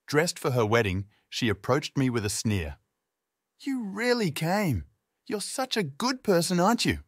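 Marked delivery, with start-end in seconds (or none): 3.6-7.0 sarcastic. A narrator's reading. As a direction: sneer it with fake praise. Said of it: "dripping with sarcasm".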